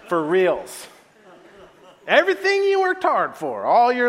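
loud, scandalized tattling; acted aggrieved outburst; indignant accusation. Acted angry brother accusing his father.

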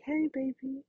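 put-on calm a child down tenderly; a mother soothing her upset older child; gentle parent voice. Shown as a demonstration. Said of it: "You might wanna just say".

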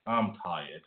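soft, low, fading to a whisper; weary. Pretend. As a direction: trail off as if worn out. Host winding down, mock-weary sign-off.

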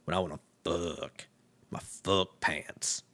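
mock-sultry deep voice; real deep voice. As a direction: drop the voice low for the key word. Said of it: "Her voice gets real deep".

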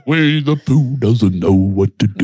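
put-on slow, high drunken shout, laughing; drunk Philly friend. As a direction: holler in disbelief, slurred. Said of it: "he goes to his buddies".

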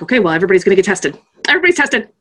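fast, frantic mock panic; inner crazy person. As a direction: rattle it off like your unhinged inner self. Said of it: "the crazy person inside of me was like".

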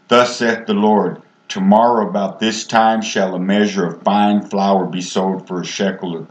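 reading King James verses in a steady preaching voice; measured reading of scripture to the congregation. Acted. Reads scripture aloud.

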